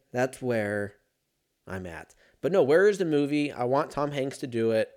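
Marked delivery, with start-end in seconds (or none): none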